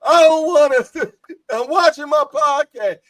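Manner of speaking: high, loud mock grumpy dad; hammed-up annoyed father; imitating husband. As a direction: brush the family off like a hooked fan, loud and high. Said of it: "he said".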